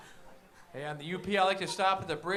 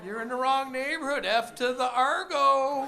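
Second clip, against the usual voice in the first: put-on Fargo thug in a North Dakota accent; hammed-up Fargo gang member; North Dakota gangster accent; 7 semitones higher, 5 dB louder than usual. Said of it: "with that accent".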